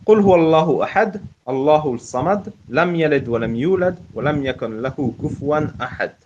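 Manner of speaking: measured Quranic Arabic recitation, Shiite style; Shiite Quranic recitation accent. Shown as a demonstration. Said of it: "je vous fais profiter de mon accent chiite".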